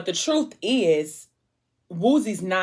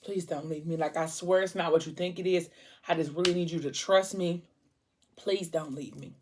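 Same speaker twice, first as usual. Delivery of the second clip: quiet, desperate plea; soft begging; 6 dB quieter than usual. Retold or imitated. Boyfriend begging girlfriend to stay, hushed plea. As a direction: beg softly, almost breaking.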